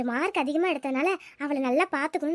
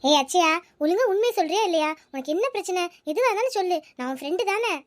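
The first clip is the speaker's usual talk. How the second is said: put-on slightly raised, concerned village girl; worried friend; 7 semitones higher, 3 dB louder than usual. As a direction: coax her friend gently to talk.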